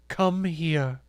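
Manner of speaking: cool, deliberate command; stern command. A narrator's reading. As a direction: summon him with no room for refusal. Accuser orders worker over.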